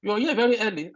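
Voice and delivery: a hint of the surprised interviewer; mock surprise. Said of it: "He said".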